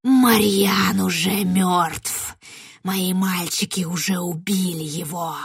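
very slow, gloating rustle; rustling witch. Acted. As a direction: savor the news of his death slowly. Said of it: "шелестела ведьма".

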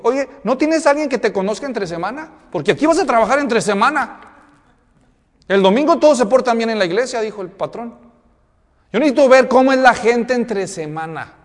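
jefe algo más agudo y fuerte, imitado; patrón exigente. Retold or imitated. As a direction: imita al patrón que exige conocer al candidato. Patrón regaña al candidato. (patrón imitado, un poco más agudo)

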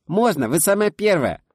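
put-on high, loud child greeting; voice shooting up. A narrator's reading. Girl greeting the family friend in a high excited voice. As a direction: squeal a hello to the guest.

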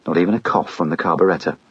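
usual speaking voice

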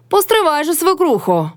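high, threatening self-talk; talking aloud to herself. A narrator's reading. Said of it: "говорила голосно Мотря сама до себе".

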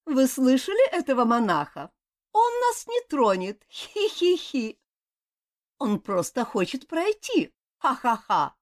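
voiced brats laughing at a monk; mocking boys. A narrator's reading. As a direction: taunt him like cocky kids, tittering.

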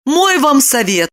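high voice with a smile; smiling. A narrator's reading. Lipochka goes on advising Roman, smiling. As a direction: offer advice with a smile. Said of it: "с улыбкой продолжила Липочка".

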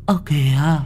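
a drowned spirit luring them back; ghostly wailing woman; moaning ghost. A narrator's reading. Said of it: "rên rỉ vang lên".

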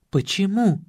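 ordinary delivery

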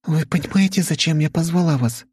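put-on young heiress asking whether they understand why they are here; young woman Vika. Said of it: "уточнила Вика".

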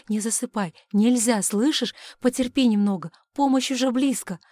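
loud pleading calls; urgent pleading. Acted. Husband begging his wife not to fall asleep, urgent loud pleas. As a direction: keep her awake with loud urgent pleas.

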